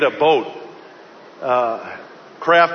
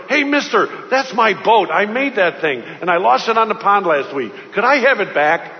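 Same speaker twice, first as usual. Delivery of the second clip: put-on eager boy; 3 semitones higher than usual. Little boy excitedly asks the shopkeeper to return his boat. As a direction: pipe up like an excited kid claiming his toy.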